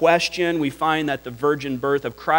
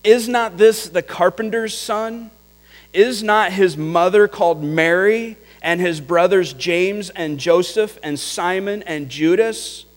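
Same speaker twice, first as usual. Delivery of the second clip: raised, incredulous questions; astonished townsfolk; 4 semitones higher than usual. Retold or imitated. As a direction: ask it in disbelief, voice lifted high. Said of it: "they were astonished and said".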